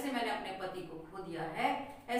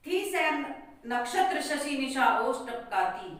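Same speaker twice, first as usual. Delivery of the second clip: poem recitation. Acted. Teacher reading the court-scene stanza aloud to students, verse recitation. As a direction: declaim each couplet with a steady beat.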